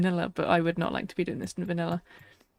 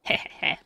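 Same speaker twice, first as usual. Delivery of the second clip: a breathy little witchy cackle; witch cackle. Pretend. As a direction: cackle like a storybook witch on request. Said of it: "I can throw in some cackles".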